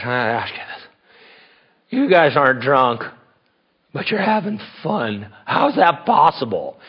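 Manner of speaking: lightly voiced drunk partygoer; a hint of sloshed bafflement; imitated tipsy woman. Sloshed woman questioning two sober men, lightly imitated tipsy puzzlement. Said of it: "everybody would get sloshed".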